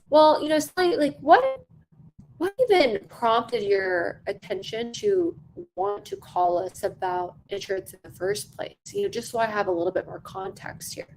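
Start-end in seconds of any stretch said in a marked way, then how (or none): 0.1-8.8 curious sales question. Shown as a demonstration. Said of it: "Maybe I would say something about".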